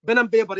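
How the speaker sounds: "Pen and paper" with every p said as b, "ben and baber"; Egyptian accent. Shown as a demonstration. Teacher showing students the Egyptian "Pen and paper" with b for p. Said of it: "That's Egyptian accent".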